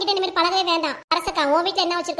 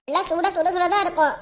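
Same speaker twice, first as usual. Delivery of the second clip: laughing. Real, not acted. Laughing comment on the same words.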